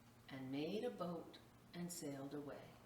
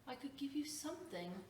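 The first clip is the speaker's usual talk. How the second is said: put-on pleading old tree; 8 semitones higher than usual. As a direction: beg forgiveness as a worn-out stump. Tree apologises with nothing left.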